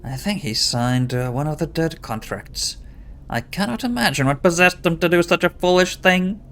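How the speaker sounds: worried wife in a mock Scottish accent; pseudo-Scottish accent. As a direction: put on a fake Scottish lilt. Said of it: "a pseudo-Scottish accent".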